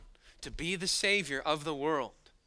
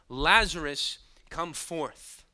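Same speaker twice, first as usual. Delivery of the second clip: loud on Lazarus, then drops; shout; 4 dB louder, slower than usual. Acted. Preacher repeating Jesus' call, louder on the name. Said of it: "He shouted".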